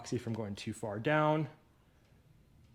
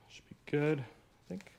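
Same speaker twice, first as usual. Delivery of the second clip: whisper; 4 semitones higher, slower than usual. Real, not acted. Careful with pressured lid.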